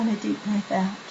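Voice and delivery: sleepy breathing cue. Shown as a demonstration. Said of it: "Your voice would get more and more sleepier".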